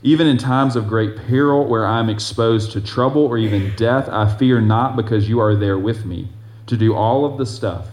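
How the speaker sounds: loud, declaiming psalm reading; scripture reading. Acted. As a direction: proclaim the verse to the congregation. Reads Psalm 23 aloud.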